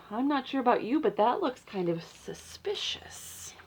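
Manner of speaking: hushed, conspiratorial whisper; whispered aside to the young listeners. Acted. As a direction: let them in on a secret. Reader confides suspicion to children.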